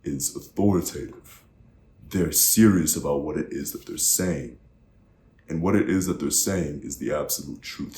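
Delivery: measured, falling firmly on "authoritative" and "truth"; downward inflection. Shown as a demonstration. Coach voicing an impressed audience's thought, downward inflection. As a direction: close each phrase with finality, "truth" dropping. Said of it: "See how much power".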